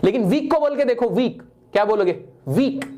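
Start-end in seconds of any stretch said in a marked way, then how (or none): 1.1-1.4 "वीक" as one unbroken sound; in one flow. Shown as a demonstration. Teacher showing a one-syllable word, "वीक" in one flow. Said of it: "एक flow में निकला". 2.5-2.9 "वीक" as a single unbroken beat; in one go. Shown as a demonstration. Teacher demonstrating one syllable, "वीक" said in one go. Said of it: "एक बार में निकली".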